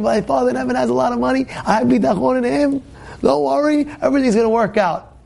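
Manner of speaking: mock screaming. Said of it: "He starts screaming".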